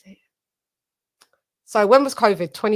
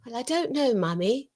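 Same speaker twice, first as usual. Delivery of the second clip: put-on little girl voice; 3 semitones higher, 6 dB quieter than usual. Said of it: "She talks like this".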